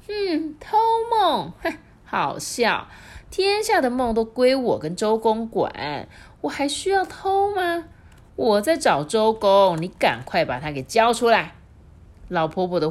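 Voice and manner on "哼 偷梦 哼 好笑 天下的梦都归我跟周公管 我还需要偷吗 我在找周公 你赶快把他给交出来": high, loud scoffing granny; old wife mocking, loud and high; scornful old woman. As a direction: scoff then demand.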